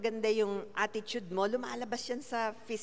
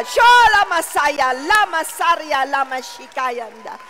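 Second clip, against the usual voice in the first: loud, high, slow ecstatic syllables; speaking in tongues; 6 semitones higher, 17 dB louder than usual. Real, not acted. Preacher praying in tongues before the congregation. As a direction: let it pour out in tongues.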